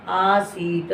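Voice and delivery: आसीत with a full, clear final त; आसीत, final त fully pronounced. Shown as a demonstration. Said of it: "आसीत का ता पूरा पढ़ना है".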